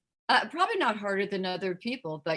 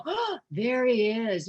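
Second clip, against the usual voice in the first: slow, gasping admiration; gasp, then draw out the words like a smitten fan; awed audience; much slower than usual. Retold or imitated. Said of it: "the audience may go".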